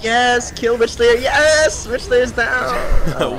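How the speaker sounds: high, loud cheer for the kill; excited cheering. Real, not acted. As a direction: shout with real excitement.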